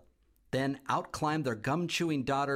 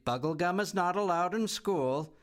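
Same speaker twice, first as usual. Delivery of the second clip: firm principal; 5 semitones higher than usual. A narrator's reading. Principal to Bea.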